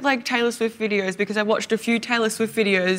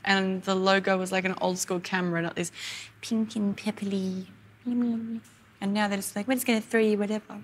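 whinging; 4 dB quieter than usual. Real, not acted. Podcaster moaning to co-host about the new app, mildly whinging. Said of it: "whinging old lady".

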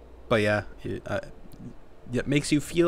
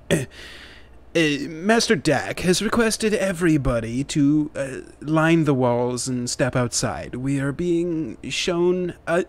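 booming echoing voice; 4 semitones higher than usual. Acted. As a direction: call out through an echoing hall. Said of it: "a booming voice echoing all around you".

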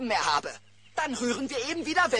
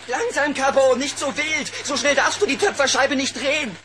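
alarmed warning; 5 semitones higher, 10 dB louder than usual. Acted. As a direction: shout a warning across the room. Warns boy at pottery wheel.

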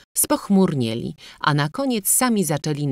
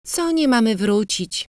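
higher-pitched, eager exclamation; mild excited cry; 8 semitones higher than usual. A narrator's reading. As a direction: cry it out, slightly breathless with eagerness. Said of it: "krzyknęła, zachwystując się". (lekki okrzyk z przejęciem)

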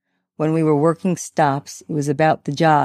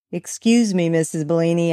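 calling up. Acted. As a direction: raise the voice to reach upstairs. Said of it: "I called up to her".

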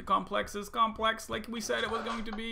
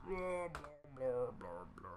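whispered blah; 5 semitones lower, 8 dB quieter than usual. Pretend. Whispered mock chatter.

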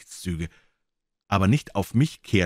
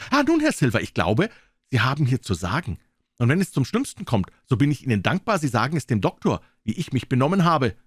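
Jim bursts out, higher and eager; burst out calling; 6 semitones higher, 3 dB louder than usual. Acted. Jim calls out to Silver, bursting out. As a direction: break the silence with a cry. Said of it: "brach ich wieder los und rief".

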